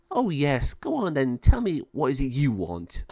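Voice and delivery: mocking villain. Malvador mocks Sabio.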